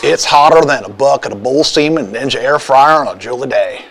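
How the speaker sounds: hint of a Southern gentleman accent; lightly put-on Southern accent. Shown as a demonstration. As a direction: read it as a mildly Southern gentleman. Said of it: "read that in your best Southern gentleman accent".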